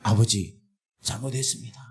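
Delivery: a hint of a repentant plea. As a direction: murmur it low like a broken son. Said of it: "회개가 나오더라니까요".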